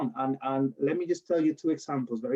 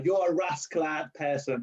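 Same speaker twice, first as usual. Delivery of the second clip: put-on Jamaican accent; slower than usual. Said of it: "they say with that cool accent".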